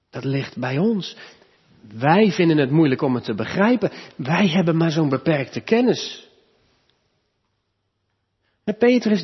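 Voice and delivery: ordinary talk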